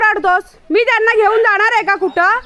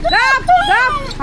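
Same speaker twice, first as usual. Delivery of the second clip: लांबवून शांत करणे; 7 semitones higher, much slower than usual. Real, not acted. Hushing the barking dog.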